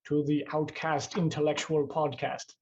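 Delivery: slow, grand podcast announcer. Pretend. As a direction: boom out the welcome like a radio host. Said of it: "I'm not gonna talk like that the whole time".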